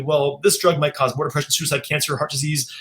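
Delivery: mock rattled-off drug-ad disclaimer; quick disclaimer. End of a depression drug commercial listing side effects, quickly. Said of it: "said pretty quickly".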